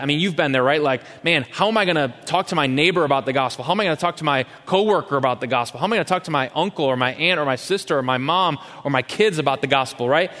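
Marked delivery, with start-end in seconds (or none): 1.2-10.1 quick, fretting questions; imitating a nervous believer, fast; worried inner voice. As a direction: rattle off anxious doubts. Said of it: "all of the worry that we put into that".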